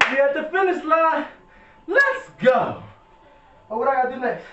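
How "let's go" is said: excited shout. Real, not acted. Hyping up at the finish line.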